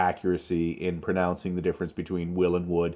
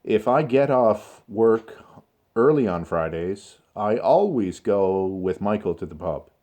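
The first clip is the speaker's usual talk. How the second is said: deliberate phrases with small pauses; slow, controlled model answer. Shown as a demonstration. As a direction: demonstrate careful speech, lingering on "always". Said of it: "this is the way in which I would like you to consider speaking".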